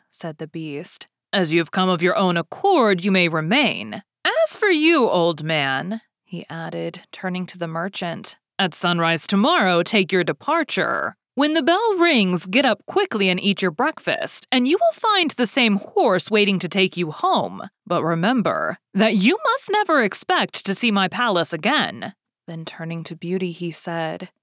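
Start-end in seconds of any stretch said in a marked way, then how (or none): 1.3-6.0 louder, imposing Beast voice; Beast's question. Acted. Beast gives orders. 8.6-22.1 louder, imposing Beast voice; Beast's question. Acted. Beast gives orders.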